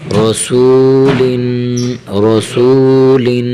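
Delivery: رسولن with a full, heavy ر, read slowly. Shown as a demonstration. Teacher showing a heavy ر in رسولن. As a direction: thicken the ر in رسولن. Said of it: "حرف را کو موٹا کرنا ہے".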